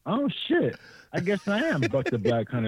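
high, delighted "oh, shit"; sudden realization. Retold or imitated. Speaker accepting his new nickname, surprised and amused. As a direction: it dawns on him, voice leaping up. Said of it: "I'm like".

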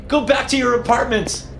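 high frantic yell up the stairs. A narrator's reading. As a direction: yell a panicked warning. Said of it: "I yelled".

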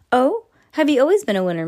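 mocking voice of Missus Chambers; teasing challenge. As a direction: needle him with a bright quick jab.

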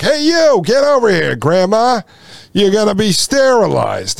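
lightly acted official calling someone over; airport screener. Mock airport screener calls Grandma over for selection, lightly hammed-up hail.

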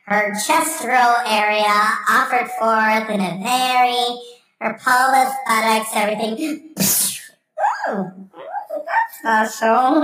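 lightly voiced prim church lady; a hint of the smug Church Lady. Comedian as the Church Lady sending off to Pearl, lightly voiced.

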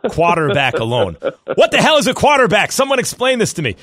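mock-outraged shout over "quarterback"; imitating "quarterback". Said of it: "the way he says quarterback".

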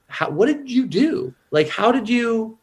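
high, slowed, baffled squeak; baffled Joy. Retold or imitated. Joy asking Sadness how she did it, baffled and high. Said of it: "she looks at Sadness and she's like".

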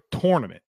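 "tournament" with TOR as first syllable; friend's "tournament". Retold or imitated. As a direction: say "tournament" starting like tore. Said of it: "and Bob says".

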